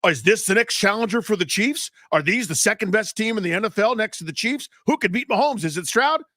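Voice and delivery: hammed-up hot-take pundit; mock talking head. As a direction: parody a shouty sports show host. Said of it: "on the shout at you shows".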